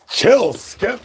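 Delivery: very high sharp "Chill, Skip"; high scolding. Real, not acted. Streamer shrieking at fired-up Skip to chill. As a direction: squeal at Skip to calm down.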